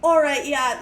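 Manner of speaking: put-on Canadian officer slipping into an Irish accent; botched Irish accent. Canadian Mountie letting her explain, accidental Irish accent. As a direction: try Canadian, land vaguely on Irish. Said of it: "I'm doing an Irish accent".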